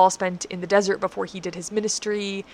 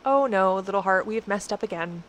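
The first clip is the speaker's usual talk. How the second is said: tender self-talk. Retold or imitated. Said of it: "speak to your own heart tenderly and gently".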